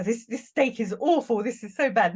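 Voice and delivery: hammed-up diner's grumble, a bit loud; mock moaning. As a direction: moan about the meal like a disgusted customer.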